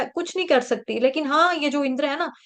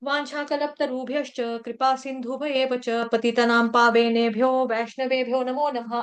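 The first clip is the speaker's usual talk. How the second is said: calm, steady chanted prayer; prayer recitation. Acted. Teacher closing the class with a prayer, calm chant. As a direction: offer the closing prayer with reverence.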